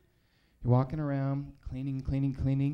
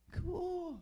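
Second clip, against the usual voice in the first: much higher, perky salesy voice; chirpy brand voice; 3 dB quieter than usual. Retold or imitated. McDonald's answering the comic, in a perky high sales voice. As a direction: pitch the deal like a peppy mascot. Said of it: "McDonald's was like".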